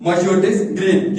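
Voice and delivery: very slow, drawn-out model sentence; slow example sentence. Shown as a demonstration. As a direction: say it slowly so the class can write. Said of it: "और यहां पर क्या है?". (बहुत धीरे बोला गया उदाहरण)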